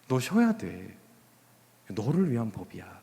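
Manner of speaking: quiet, caring counsel; gentle reassurance. Acted. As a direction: say it tenderly, as God caring for someone. Voicing God gently explaining the law.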